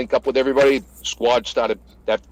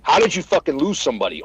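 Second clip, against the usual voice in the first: mild retold yell, demanding; half-strength angry yell; 3 semitones higher than usual. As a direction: reenact chewing someone out. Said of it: "I start yelling at him".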